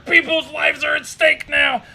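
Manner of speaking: mock the pilot's sarcasm as a shout; mock sarcastic shout. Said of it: "He's so fucking sarcastic".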